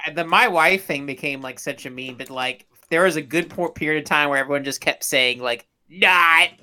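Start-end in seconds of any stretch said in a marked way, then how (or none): 0.2-0.9 put-on Borat accent. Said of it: "that was a Borat thing". 5.9-6.5 put-on Borat accent. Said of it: "that was a Borat thing".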